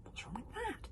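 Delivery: soft hushed question; boy whispering to friend; whispered. Acted. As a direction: whisper it back. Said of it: "Fishlegs whispered back".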